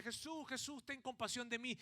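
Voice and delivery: mock cry for mercy from the roadside; retold cry for mercy. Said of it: "él gritaba".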